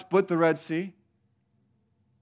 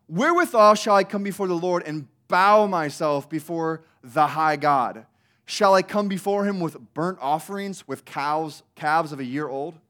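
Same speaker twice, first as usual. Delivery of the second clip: dripping sarcasm; 3 semitones higher, 5 dB louder than usual. Shown as a demonstration. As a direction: drag out each offer with snide sarcasm. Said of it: "the sarcasm dripping out of their mouth".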